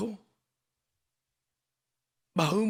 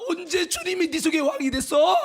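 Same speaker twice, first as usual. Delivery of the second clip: high, loud indignant challenge; retold soul's shouted rebuke; inner voice shouting; 6 semitones higher, 5 dB louder than usual. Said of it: "영혼이 막 소리치는 거야".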